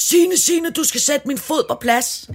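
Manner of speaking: put-on screaming, high pitched. Retelling how a woman whose foot slipped out screamed at her, retelling a scream. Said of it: "skriger hun til mig".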